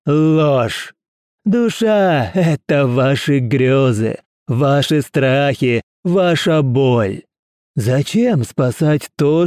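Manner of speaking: slow, high, fervent preaching; thundering sermon. Acted. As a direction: preach slowly with fanatic fervour. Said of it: "в гремящую проповедь".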